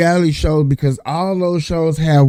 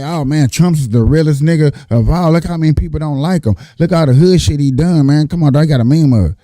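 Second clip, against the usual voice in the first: hood voice. Pretend. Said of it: "I had to go get hood on y'all".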